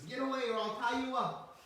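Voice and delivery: loud, high scolding threat; threatening mother. Retold or imitated. Mother Yashoda chasing Balaram away, loud high scolding threat. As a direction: shoo him off with a threat.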